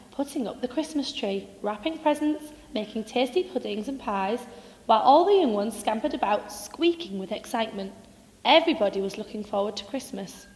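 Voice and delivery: put-on gentle storybook reading for children; bedtime story narration. A narrator's reading. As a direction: read it like a cosy bedtime tale.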